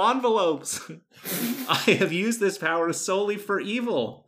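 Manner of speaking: hammy supervillain announcing himself; grand evil villain proclamation. Acted. Reading letter as villain Smegma Mail.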